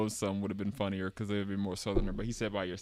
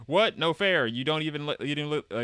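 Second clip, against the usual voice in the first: put-on higher, indignant child's whine; protesting kid; 5 semitones higher, 4 dB louder than usual. Voicing a protesting child character.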